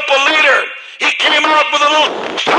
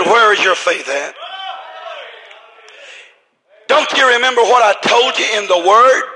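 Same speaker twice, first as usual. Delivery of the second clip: lightly voiced rebuke, lower pitched; a hint of a lower-voiced reproving teacher; Jesus questioning; 4 semitones lower than usual. Jesus asks the fearful disciples about their faith, lower reproving voice.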